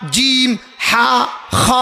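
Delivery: slow, muffled counting with the mouth shut; lips closed counting. Shown as a demonstration. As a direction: count and recite letters through closed lips, slowly. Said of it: "টুট বন্ধ করে কনছেন এক". (ঠোঁট বন্ধ করে ধীরে ধীরে গোনা)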